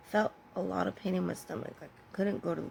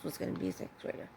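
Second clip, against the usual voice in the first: whispered aside; 7 dB quieter, faster than usual. Real, not acted. Quick whispered aside clarifying the age.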